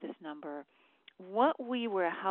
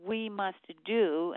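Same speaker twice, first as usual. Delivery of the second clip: slow, emphatic "do"; stress on DO; 3 dB louder, slower than usual. Real, not acted. Numerology teacher urging action to viewers, stress on "do". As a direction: draw out and lean on the word "do". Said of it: "I stress the word do".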